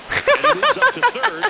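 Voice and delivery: laughing through the call, pitch jumping up; can't keep it together on the call. Real, not acted. Commentator cracks up at play.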